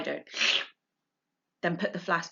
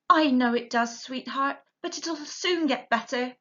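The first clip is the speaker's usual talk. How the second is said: tender; 5 semitones higher than usual. Acted.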